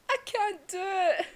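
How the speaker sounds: high, loud, drawn-out retold refusal; Inosuke anguished. Inosuke tearfully refusing to strike his comrade, loud anguish. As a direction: cry it out slowly, high and loud.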